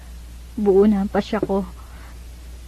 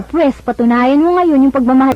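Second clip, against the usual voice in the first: challenging demand; 3 semitones higher, 5 dB louder than usual. Acted. Ivy challenges him.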